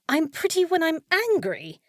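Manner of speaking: high, loud disbelieving repeat; stunned echo of a compliment; incredulous echo. Acted. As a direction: throw his words back in disbelief. Maid repeats wizard's delirious remark.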